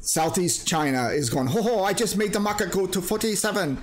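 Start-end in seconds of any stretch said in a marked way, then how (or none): 1.5-3.8 higher gloating voice, lightly done; a hint of a smug market villain chuckling; lightly voiced scheming trader laughing at everyone. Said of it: "he's laughing at us".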